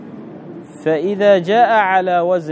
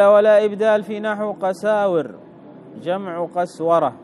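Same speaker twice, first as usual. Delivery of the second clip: slightly raised, even reading voice; reading out text; 3 semitones higher than usual. Acted. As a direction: read the grammar text out evenly. Reads out the textbook. (قراءة متن بنبرة مستوية)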